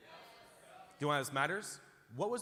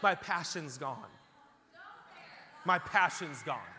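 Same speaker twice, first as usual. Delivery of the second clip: mocking super spiritual; 2 semitones higher, 5 dB louder, slower than usual. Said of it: "I don't know why we talk like this".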